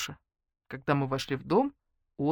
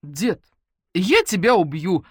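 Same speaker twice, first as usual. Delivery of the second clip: stern; 3 semitones higher, 7 dB louder, slower than usual. Acted. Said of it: "строго сказал Матвей".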